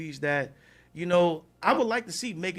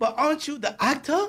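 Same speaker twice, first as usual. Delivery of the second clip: put-on silky, polished British accent, pitched up; 9 semitones higher, 5 dB louder than usual. Recounting a woman who spoke up during his talk: smooth british accent. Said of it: "this British accent came out that was just so smooth".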